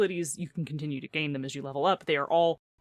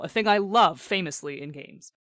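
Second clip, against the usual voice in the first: mock enthusiasm, a touch raised; sarcastic; 3 semitones higher, 4 dB louder than usual. Real, not acted. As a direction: claim to love it, meaning the opposite. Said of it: "That's sarcasm".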